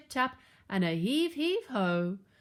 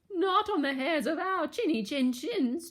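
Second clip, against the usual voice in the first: high, quavering piglet; trembling; 7 semitones higher than usual. A narrator's reading. Boris refuses the wolf, trembling high voice. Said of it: "trebled Boris".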